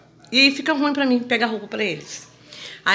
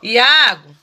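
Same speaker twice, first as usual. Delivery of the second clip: calling out loudly; 11 dB louder than usual. Real, not acted. Mother calling son loudly.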